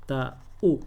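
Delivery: Ataúd broken as a-ta-úd, each syllable separate; syllables split apart. Shown as a demonstration. Teacher to student, spelling out Ataúd syllable by syllable. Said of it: "Así".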